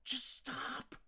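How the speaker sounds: pleading angry cry, drawn out; losing his cool. Acted. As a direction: snap at her, fed up at last. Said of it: "He lost his cool".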